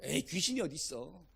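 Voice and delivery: mock sceptic's offhand denial; dismissive doubter. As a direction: brush it off as nonsense. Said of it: "귀신의 존재를 인정하지 않는 거예요".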